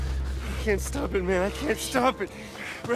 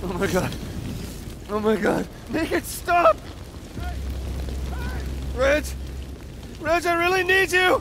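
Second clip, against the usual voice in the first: angry crying; 5 semitones higher than usual. Acted. Panicked transformation, crying out.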